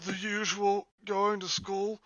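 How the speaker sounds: high, even robot-like reading; robotic, mechanical delivery. Acted. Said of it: "you sound like a robot".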